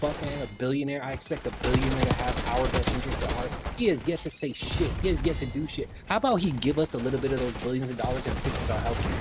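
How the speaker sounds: loud, hammed-up Southern country accent; mock country accent. Streamer complaining about a billionaire in a mock country accent. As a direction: rant it like a fed-up country boy. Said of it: "my, like, racist country accent".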